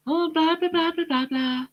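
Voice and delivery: high, scornful blah blah; dismissive blah blah. Real, not acted. Vlogger mocking the newspaper claims, scornful and high. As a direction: brush it all off with a sneer.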